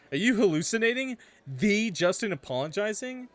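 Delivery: can't believe what he just heard; shocked disbelief. A narrator's reading. Narrator reacting to Justin's apology, stunned.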